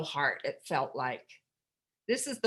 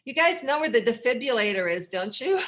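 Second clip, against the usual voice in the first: louder teasing question with a laugh; dark joke; 5 semitones higher, 7 dB louder than usual. Retold or imitated. Greeting coworkers at the door, louder teasing. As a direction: tease them with a dark joke. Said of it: "and I'd go".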